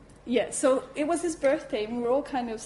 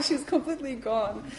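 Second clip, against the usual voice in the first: usual speaking voice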